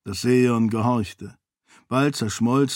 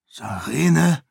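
worried; 3 semitones higher than usual. A narrator's reading. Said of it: "fragte Eventeo besorgt".

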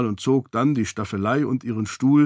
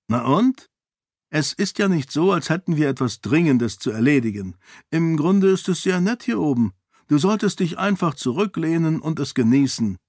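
lightly voiced Raoden, a touch higher and playful; Raoden teasing; 5 semitones higher than usual. Raoden teasing Galadon on the rooftop, lightly playful. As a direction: tease the grumbling friend lightly.

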